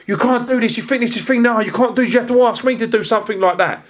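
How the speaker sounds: retelling an angry officer's rant, mock angry; mock angry customs officer. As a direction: imitate a furious officer, lightly. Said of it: "going mad crazy".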